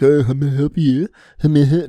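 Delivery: terrible, bad English accent. Imitating the male British voice the speaker switched to, in a terrible English accent. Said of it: "I have a terrible fucking English accent".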